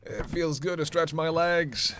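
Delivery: loud, drawn-out relief; stretching relief. Acted. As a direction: say it through a big satisfying stretch. Relief at getting out of car.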